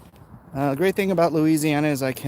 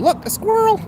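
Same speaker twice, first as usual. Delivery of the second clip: mock surprise; 5 dB louder than usual. Sudden joke distraction.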